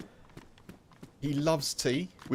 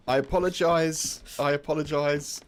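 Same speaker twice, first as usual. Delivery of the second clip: loud mock apology; 3 semitones higher, 4 dB louder than usual. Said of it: "apologising to the dog".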